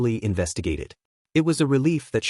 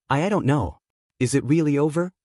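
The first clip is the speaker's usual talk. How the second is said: choked up; 3 semitones higher than usual. Acted. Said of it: "Izuku choked out".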